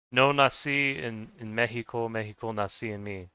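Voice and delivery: slow careful Spanish, "No nací en México" with Spanish vowels; Spanish phrase, slow. Shown as a demonstration. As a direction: say "México" the Spanish way, with a breathy h sound for the x. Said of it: "how would I say it in Spanish".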